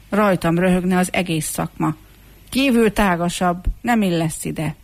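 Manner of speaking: mildly scornful refusal; dismissive. Acted. Hairdresser turns the chipped comb away from the shop, dismissively. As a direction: wave the applicant away. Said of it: "elutasítóan legyintett".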